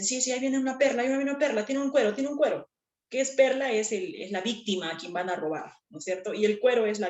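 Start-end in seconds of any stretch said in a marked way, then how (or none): 0.0-2.7 higher, quick conspiratorial thief talk; whispering thief. Retold or imitated. Teacher imitating thieves spotting a victim. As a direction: tip off your partner about a mark. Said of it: "los ladrones cuando dicen".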